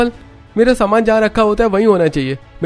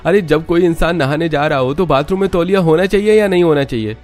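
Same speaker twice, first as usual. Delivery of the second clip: loud, much higher, defiant angry shouting; angry retort; 8 semitones higher, 4 dB louder than usual. Acted. Son argues back at his mother, angry loud retort. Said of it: "Rohan का गुस्सा देखकर".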